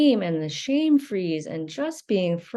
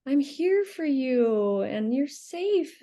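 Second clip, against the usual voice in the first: comforting parent; 3 semitones higher, slower than usual. Retold or imitated. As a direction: soothe the crying child gently. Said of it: "hold you and comfort you".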